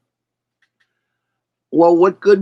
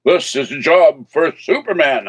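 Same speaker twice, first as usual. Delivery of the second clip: George Reeves Superman; 2 semitones higher, 3 dB louder than usual. Pretend. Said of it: "Although I might have the voice".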